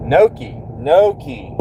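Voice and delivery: "Noki" said as "NO-kee", falling; repeating the pronunciation. Shown as a demonstration. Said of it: "Okay, that's how you say it".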